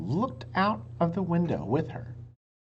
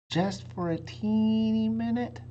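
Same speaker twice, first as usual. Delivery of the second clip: Annie pleading; 9 semitones higher than usual. A narrator's reading. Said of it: "said Annie".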